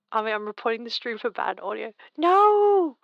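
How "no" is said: sudden high shout of no; loud cry. Pretend. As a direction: yell it out in protest. Mock protest at bad audio report.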